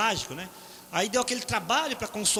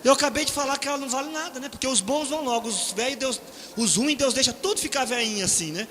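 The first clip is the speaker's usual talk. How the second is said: higher, louder, horrified brother; panicked retelling; 5 semitones higher, 4 dB louder than usual. Retold or imitated. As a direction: replay the brother's panic after the gaffe. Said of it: "falou assim".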